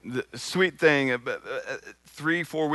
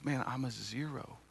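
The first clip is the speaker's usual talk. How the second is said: tearful son; 11 dB quieter than usual. Retold or imitated. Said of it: "his eyes are welling up".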